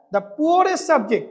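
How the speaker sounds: stretched, careful words; slow dictation. Shown as a demonstration. Teacher giving the class the phrase to write, slowly. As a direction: dictate it word by word. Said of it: "লেখার চেষ্টা করেছি".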